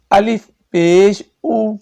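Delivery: او said long in a changed voice; wrong oo sound. Shown as a demonstration. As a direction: stretch the او in الف پیش او. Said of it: "او بھی نہیں کرنا". (او کو غلط انداز میں کھینچنا)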